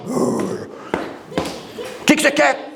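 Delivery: breathy, very slow, drawn-out question; lion questioning rhinoceros. Acted. Lion quietly asks the rhinoceros why he wants the crown, slow breathy hush. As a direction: hush it and stretch every word. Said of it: "Aí vem um rinoceronte".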